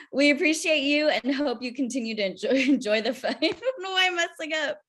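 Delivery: laughter breaking into the words; laughing through it. Real, not acted. Host flubbing the festival outro, giggling. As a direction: read the outro while giggling and stumbling. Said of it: "I can repeat that again".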